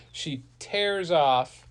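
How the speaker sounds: usual speaking voice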